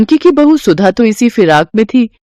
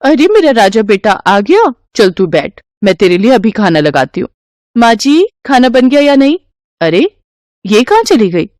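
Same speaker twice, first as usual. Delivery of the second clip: nagging wife; 3 semitones higher than usual. Acted. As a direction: whine and push to get rid of her. Mother greets son, calls mother-in-law.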